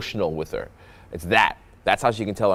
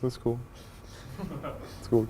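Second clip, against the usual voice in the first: much softer, mock lame reply; awkward small talk; 3 semitones higher, 12 dB quieter, slower than usual. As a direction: let it drop quietly into awkwardness. Acts out dull, awkward small talk.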